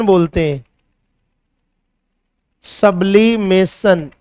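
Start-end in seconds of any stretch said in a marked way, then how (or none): 2.7-4.1 सब्लिमेशन said again slowly, each syllable drawn out; slow repetition. Shown as a demonstration. Teacher repeating the new term to students, slow and deliberate.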